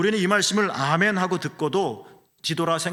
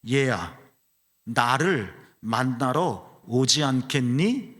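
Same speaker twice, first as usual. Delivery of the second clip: gentle invitation; much slower than usual. Retold or imitated. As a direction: invite like a kind parent to a child. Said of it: "말 대신".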